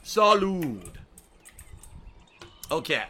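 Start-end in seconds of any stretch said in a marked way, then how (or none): 0.0-0.9 toast. Pretend. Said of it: "Here we go".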